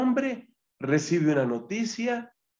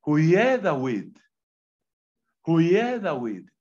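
slow, louder calling out; blind man's cry; 4 dB louder, slower than usual. Retold or imitated. Preacher voicing the blind beggar crying out to Jesus, slow and louder.

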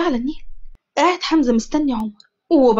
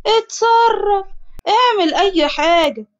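irritated order; 7 semitones higher, much slower than usual. A narrator's reading. Boss snaps at henchman.

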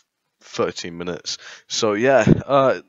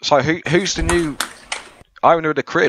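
put-on Australian accent. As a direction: play an Aussie official in an Australian accent.

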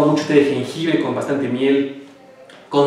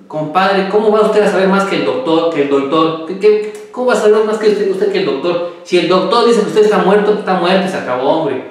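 put-on drunk scolding; 4 semitones higher than usual. Borracho discute tras el golpe. (regaño borracho, más agudo y fuerte)

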